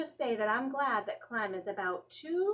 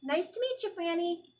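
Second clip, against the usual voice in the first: high little squeak; squeaky; 6 semitones higher than usual. A narrator's reading. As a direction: greet the goldfish in a tiny squeaky voice. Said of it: "I squeaked".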